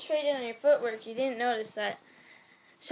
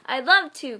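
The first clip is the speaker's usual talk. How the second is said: mild exclamation; 3 semitones higher, 12 dB louder than usual. Acted. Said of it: "Kyle exclaimed".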